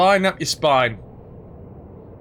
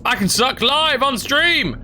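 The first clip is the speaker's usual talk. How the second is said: gleeful; 8 semitones higher, slower than usual. Pretend. Pun on suck life.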